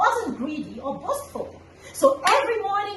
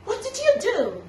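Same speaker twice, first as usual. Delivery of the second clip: much higher, slow, breathless amazement; shocked Tortoise; 9 semitones higher, slower than usual. Acted. Tortoise seeing the hidden garden, high and astonished. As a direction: gasp out the words in disbelief. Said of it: "he was in shock".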